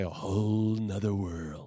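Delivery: whole nother, with an extra n before other. Shown as a demonstration. Wife showing her own way of saying it, whole nother. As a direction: run whole and nother together. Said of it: "I say".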